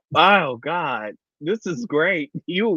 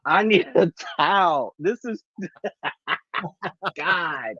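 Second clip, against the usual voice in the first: words broken up by real laughing fits; crying with laughter. Real, not acted. Co-host needs a towel, crying with laughter. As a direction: fight to speak through tearful laughter. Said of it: "'cause I am crying".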